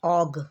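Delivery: og sounded as one chunk, not O-G; phonics word ending. Shown as a demonstration. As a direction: blend og into a single short syllable. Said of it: "और ओ जी".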